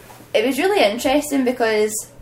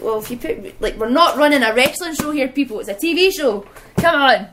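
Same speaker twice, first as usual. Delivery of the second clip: rising, louder exasperated telling-off; exasperated retort; 4 semitones higher, 4 dB louder than usual. Retold or imitated. To complaining fans, an exasperated louder rebuke. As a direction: scold the crowd like they should know better.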